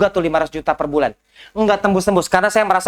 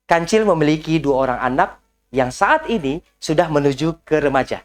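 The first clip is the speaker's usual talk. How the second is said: lower, measured storybook read like a news anchor; newsreader-style reading; 3 semitones lower than usual. Shown as a demonstration. Coach showing how he practised reading a bedtime fable, newsreader intonation. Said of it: "saya baca pakai intonasi suara kayak bab membaca berita".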